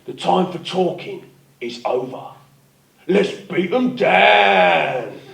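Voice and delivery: slow, gruff movie-hero delivery with a heavy pause; tough action hero line. Retold or imitated. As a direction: deliver it like the hard man in an action film. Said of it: "I did this look to camera and said".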